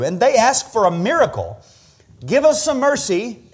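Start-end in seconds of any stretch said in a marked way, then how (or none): 2.2-3.4 high-pitched begging voice; imitated plea. Blind men ask Jesus for mercy, pleading high. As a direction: beg for help, lightly acted. Voicing blind men's request.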